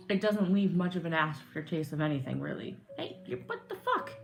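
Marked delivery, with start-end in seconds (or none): 3.0-4.1 high, hushed startled gasp; startled whisper. Real, not acted. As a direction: react to a spill in a whisper. Sudden spill reaction.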